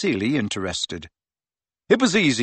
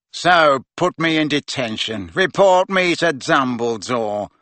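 loud sneering taunt, slowing at the end; jeering; 3 dB louder than usual. Acted. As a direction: goad the teacher with scorn. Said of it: "jeered Malfoy".

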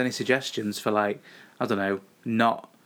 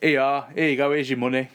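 louder, mock handing over cash; mock self handing over; 3 dB louder than usual. Wife mimics herself paying the driver, slightly louder. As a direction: hand over the money with a louder call. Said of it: "That might have been me going".

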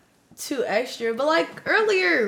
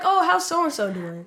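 fake voice; 4 semitones higher than usual. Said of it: "fake voice".

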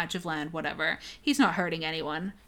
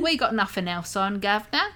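put-on British accent. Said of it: "they all have British accents".

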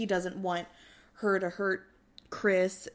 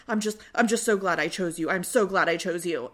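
mock hyped-up gushing; 6 dB louder than usual. Izzy hyped up after confrontation.

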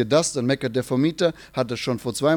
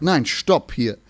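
commanding stop; much slower than usual. Retold or imitated. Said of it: "sondern Jesus sagt".

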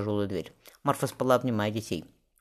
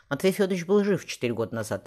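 firm, higher and steady statement; 6 semitones higher than usual. A narrator's reading. Marfa insisting to the tsaritsa that he lived, firm. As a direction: state it with conviction. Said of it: "твёрдо сказала Марфа".

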